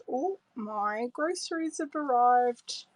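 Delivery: ordinary delivery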